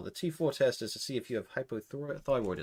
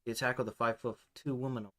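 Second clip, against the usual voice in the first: softer redo in the right voice; corrected character voice; 5 dB quieter than usual. Acted. Redoing the line in the right character's softer voice. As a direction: fix the voice, say it again quietly. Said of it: "I'm getting my fucking voices mixed up".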